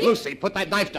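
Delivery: loud, high alarm; alarmed shouted order; urgent command. Acted. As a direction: order her sharply to disarm. Husband faced with a knife.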